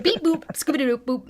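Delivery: playful beep boop robot. Pretend. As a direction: chirp it like a toy robot. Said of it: "I gotta go into robot mode".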